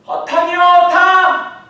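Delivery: high, drawn-out call; shouted reply. Acted. Fishermen shouting back to shore that they caught nothing. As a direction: yell back across the water.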